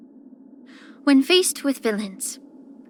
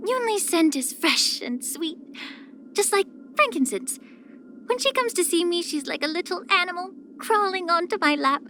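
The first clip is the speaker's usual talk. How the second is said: fond doting; 6 semitones higher than usual. Acted. Fondly describes a girl she dotes on.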